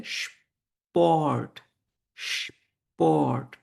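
স্পট as "shp-ort", slow and split; long "sh", then a drawn-out rest of স্পট; German pronunciation demo. Shown as a demonstration. Teacher models word for sport, স্পট slowly split. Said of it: "এটার উচ্চারণ হচ্ছে স্পট".

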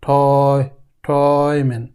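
ঠয় stressed on its own, then ঠয়মেন said whole; syllable demo. Shown as a demonstration. Teacher breaking down the word for students, stressed syllable. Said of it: "তার মানে অয়".

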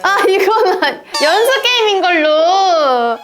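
laughing through a protest; giggling while bargaining. Real, not acted. Collapsed tower, laughing it off. (웃으며 억지 부리듯)

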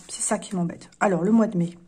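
normal talking voice

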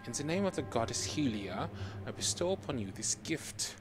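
lightly voiced German accent; solemn game character with German accent; movie villain german accent. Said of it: "the German accent as requested".

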